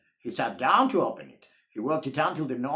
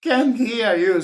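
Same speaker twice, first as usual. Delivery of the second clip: chorus of can't hear you; 4 dB louder than usual. Acted. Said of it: "said everyone".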